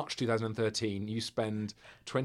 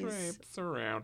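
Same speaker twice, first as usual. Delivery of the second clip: slow, savoured; 5 semitones higher, 7 dB quieter, much slower than usual. Shown as a demonstration. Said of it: "a bit of a traipse of a word".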